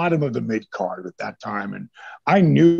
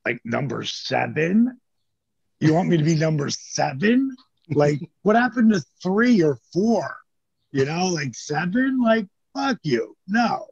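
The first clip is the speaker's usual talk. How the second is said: scornful refusal; 4 semitones higher than usual. Retold or imitated. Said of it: "And I'm like".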